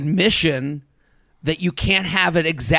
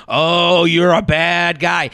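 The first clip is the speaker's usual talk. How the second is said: mock judgment; much slower than usual. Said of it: "the judgment of the".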